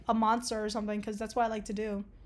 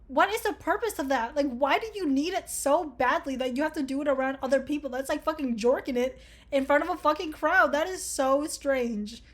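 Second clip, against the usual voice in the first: appalled disbelief; 3 semitones higher than usual. Real, not acted. Appalled reaction to a quiz question.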